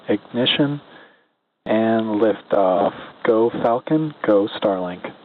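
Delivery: loud liftoff call over comms; excited radio call. Real, not acted. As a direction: cheer it out on the radio net.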